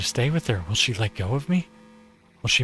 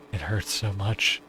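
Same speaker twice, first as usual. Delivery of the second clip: pained plea; slower than usual. Acted. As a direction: beg faintly through a squeezed throat. Ayumu choking.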